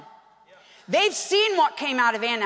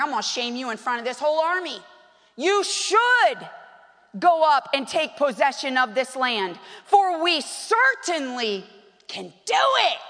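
ticked off. Retold or imitated. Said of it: "Caleb's ticked".

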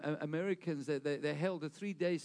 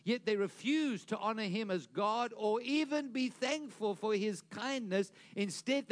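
raised, driving preacher delivery; emphatic preaching; 5 semitones higher than usual. Acted. Preacher quoting Romans to the congregation, emphatic and high. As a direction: preach it out, pitched up.

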